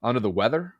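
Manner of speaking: stuffy nose from a cold; congested. Real, not acted. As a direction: talk through the congestion. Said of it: "you can probably hear it".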